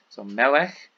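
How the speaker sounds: melech with stress on MEL, second syllable light; stress on first syllable. Shown as a demonstration. Teacher demonstrating penultimate stress for students. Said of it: "so the penultimate syllable".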